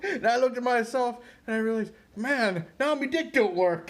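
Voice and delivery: high-pitched Cockney confession, hammed up; mock Cockney accent. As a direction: put on a comic Cockney. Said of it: "like, a Cockney accent".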